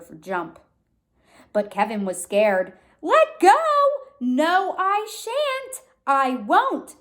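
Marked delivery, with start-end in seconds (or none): 3.0-3.5 high, loud call to let go; urging shout. A narrator's reading. The crowd shouting at Kevin to let go, high and loud. 4.2-7.0 high stubborn refusal; refuse, digging in; Kevin shouting. A narrator's reading. Kevin shouting back at the crowd, high and stubborn. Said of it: "shouted Kevin".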